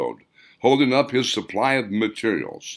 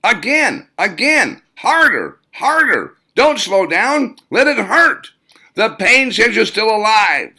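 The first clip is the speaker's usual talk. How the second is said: high, loud drill-coach yelling; high-pitched shout; 12 semitones higher, 8 dB louder, slower than usual. Acted. Martial arts coach driving his student, high loud shouting. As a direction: bark orders way up high and loud. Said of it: "shout in that high-pitched tone".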